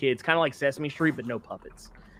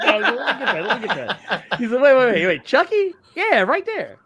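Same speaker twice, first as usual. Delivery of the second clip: excited imitation; 7 semitones higher, 3 dB louder than usual.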